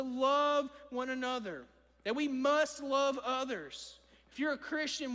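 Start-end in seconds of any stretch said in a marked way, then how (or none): 2.2-4.0 slow, weighty "must"; stress on MUST. Real, not acted. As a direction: lean hard on the word "must". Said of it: "Emphasis on the word must".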